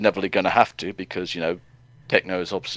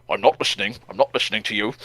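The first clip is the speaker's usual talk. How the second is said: put-on stroppy child; faster than usual. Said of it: "Like a stroppy child".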